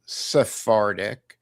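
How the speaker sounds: Sephardic with an F, set apart slowly; Hebrew-style F pronunciation. Shown as a demonstration. Co-host showing how the Hebrews pronounced it, Sephardic with an F. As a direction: say Sephardic slowly as "seh-FAR-dic". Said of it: "the Hebrews pronounced it".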